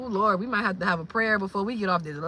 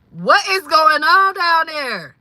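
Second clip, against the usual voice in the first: slow, loud, higher cry of disbelief; incredulous; 5 semitones higher, 7 dB louder, slower than usual. Real, not acted. Wondering what's happening down in Florida, incredulous. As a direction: stretch the question out, astounded.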